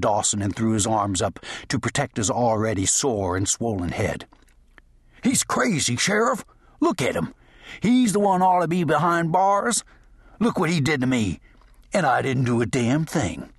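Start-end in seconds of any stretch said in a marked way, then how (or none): 5.2-13.5 high panicked pleading, pitched way up; high, scared outlaw whining behind the sheriff; frightened whining. A narrator's reading. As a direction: cower and beg the sheriff for protection. Shaggs cowers, pleading.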